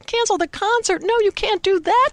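put-on high, loud childlike protest; dismayed children crying out. A narrator's reading. Choir kids protest to the organist, high dismayed cry. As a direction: kids begging not to cancel. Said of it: "the kids in the choir cried".

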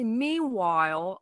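MEANWHILE drawn out slowly in a New York Jewish accent; stretched-out New York Jewish "meanwhile". Shown as a demonstration. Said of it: "it's like a New York accent".

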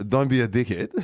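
lightly attempted accent of a friend, through laughter; half-hearted go at a mate's accent; Tahir's accent. Quoting Tahir before the cruise, laughing attempt at his accent. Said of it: "I was gonna do his accent".

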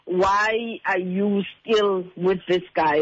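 ordinary talk

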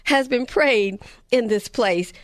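mock holler in a light Jamaican accent, slowing at the end; hint of a Jamaican accent, called out. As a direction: call it out like the Jamaican lady. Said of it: "keep hollering out".

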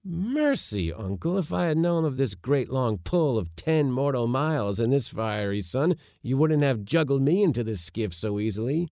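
indignant protest. A narrator's reading. Nephew refusing to row the heavy box, indignant. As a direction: object strongly, refusing to go on.

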